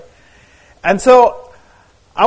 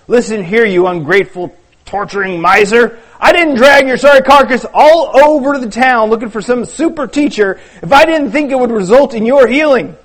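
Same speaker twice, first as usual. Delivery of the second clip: angry rebuke; 3 semitones higher, 3 dB louder than usual. Acted. Judah scolds Jim.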